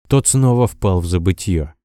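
plain reading voice

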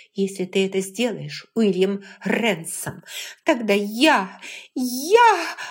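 put-on a furious young woman threatens William; sputtering threat. A narrator's reading. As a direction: threaten him and lose the words.

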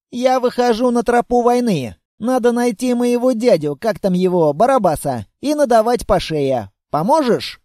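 rally like a small warrior; girl's bold declaration. Acted. The girl asks the monster to help fight her uncle, bold.

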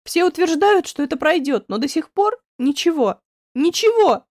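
loud, high, rising to a cry; despairing outburst. Acted. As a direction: throw the last word out in despair. Despairing about her face.

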